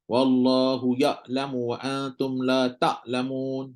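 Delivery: ya'lamu and ta'lamun read slowly with a glottal stop for the ayn; ayn read as hamzah. Shown as a demonstration. Teacher demonstrates the wrong ayn. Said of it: "sebut macam huruf hamzah".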